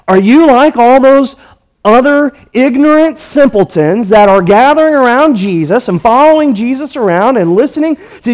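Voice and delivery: lightly voiced scornful leaders looking down on their officers; scornful rebuke. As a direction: talk down to them, hammed-up contempt. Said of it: "That's what they're saying".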